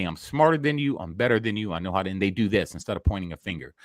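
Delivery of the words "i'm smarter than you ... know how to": smug politician. Retold or imitated. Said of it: "to pretty much say".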